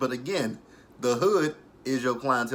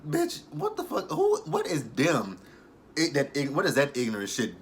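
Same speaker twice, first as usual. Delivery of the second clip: baffled, higher-pitched retort; mock outrage; 3 semitones higher than usual. The speaker demanding to know what "them" is, mock appalled. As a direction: imitate someone appalled by a word.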